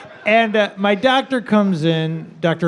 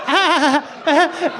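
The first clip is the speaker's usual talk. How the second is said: mock laugh; 7 semitones higher than usual. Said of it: "And I'm like".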